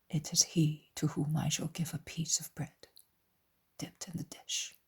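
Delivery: hushed, confidential reply; soft answer for one listener only; very low voice. A narrator's reading. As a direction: speak low, fading almost to a whisper. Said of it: "in a very low voice".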